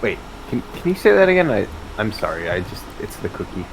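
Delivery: chewing while talking; mouth full. Real, not acted. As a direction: talk through a mouthful of cookie. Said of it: "Couldn't hear you over my chewing".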